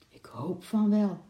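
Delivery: breathy whisper, hopeful; hushed hopeful whisper; soft whisper. A narrator's reading. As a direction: whisper it, half to herself. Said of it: "zei Lotje zacht".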